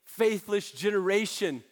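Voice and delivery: understated exasperated rebuke; a touch of exasperation; mildly frustrated. Acted. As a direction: let some frustration show. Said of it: "He's a little frustrated".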